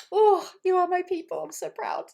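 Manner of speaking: high, loud gushing praise; proud excitement. Real, not acted. Coach overjoyed and proud of her students, high and loud. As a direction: swell with pride for the group. Coach moved by participants' goals.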